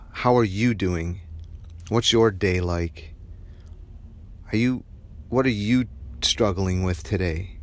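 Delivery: weight falls on the word "you"; stress on you. Shown as a demonstration. Modelling questions to a coworker, stress on "you". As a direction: lean on "you" in each question. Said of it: "put the emphasis on you".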